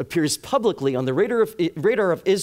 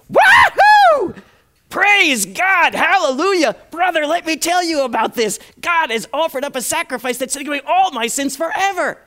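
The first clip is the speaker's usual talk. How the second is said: high, loud ecstatic cry of joy; jubilant shouting; 10 semitones higher, 8 dB louder than usual. Retold or imitated. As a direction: let loose like an overjoyed worshipper. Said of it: "I may get a little bit charismatic here".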